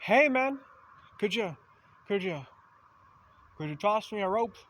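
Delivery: hesitant plea. Retold or imitated. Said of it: "You came along".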